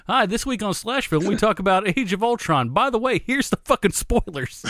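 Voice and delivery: douchey podcast host. Pretend. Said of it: "somebody big enough, just like".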